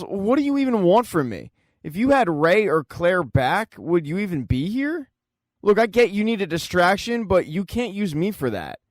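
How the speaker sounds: mild retold yell. Luther argues back at Allison, mild retold yell. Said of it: "And Luther yells".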